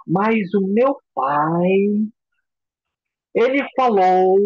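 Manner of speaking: extremely slow, stretched words with long pauses; slow person. Retold or imitated. Slow client telling therapist about father, dragged-out delivery. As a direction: play a client who takes forever. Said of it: "Ela disse".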